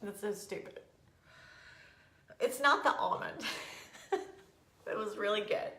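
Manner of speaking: teary, high voice, laughing at herself; choked up and embarrassed by it; crying. Real, not acted. Telling viewers about the almond, crying and embarrassed. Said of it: "Isn't it stupid that I'm crying".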